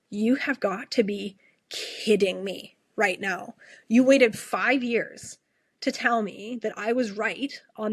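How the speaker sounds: hint of pissed-off disbelief; retold anger. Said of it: "I was pissed in the moment".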